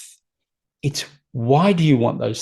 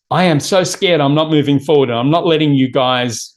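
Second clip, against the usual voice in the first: a touch louder, playing a frightened gut; mock scared gut voice; 4 dB louder, faster than usual. Gut brain protesting to the owner, mock scared. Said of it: "Our gut brain says".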